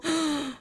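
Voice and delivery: surprised gasp. Real, not acted. Surprised by proposal chat.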